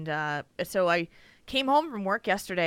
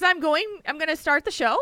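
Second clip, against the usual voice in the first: higher voice, lifting on "show" like a question; Australian question ending; 6 semitones higher than usual. Shown as a demonstration. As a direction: end on "show" as if asking. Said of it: "everything has to end with a, with a question".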